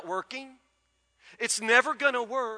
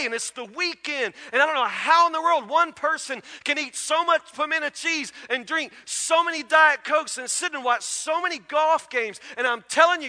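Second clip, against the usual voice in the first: higher, louder mock rant of a fed-up wife; retold wife venting, raised and louder; exasperated wife; 5 semitones higher, 4 dB louder than usual. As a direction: rant at the husband in the chair. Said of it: "She came in and said".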